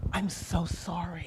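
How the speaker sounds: very hushed, soft, discreet tone. Recounting what a woman beside her partner said, imitating a hushed tone. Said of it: "in a very hushed tone".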